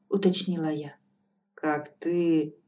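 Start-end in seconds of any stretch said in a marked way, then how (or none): 1.5-2.5 smiling. Acted. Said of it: "улыбнулась колдунья".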